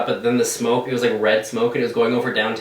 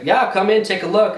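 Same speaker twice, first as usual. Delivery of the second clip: guy inviting in; 7 semitones higher than usual. Retold or imitated. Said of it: "the guy's like".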